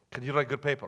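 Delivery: mock Russian professor asking; bad Russian accent. Professor questioning struggling student, bad Russian accent. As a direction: ask it in a fake Russian accent. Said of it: "don't like bad Russian accents".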